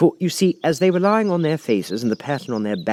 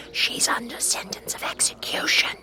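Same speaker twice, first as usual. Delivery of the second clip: whispered, softer; whispered secret; 5 dB quieter than usual. A narrator's reading. The Rabbit on tiptoe to Alice's ear, whispered secret. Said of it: "and whispered".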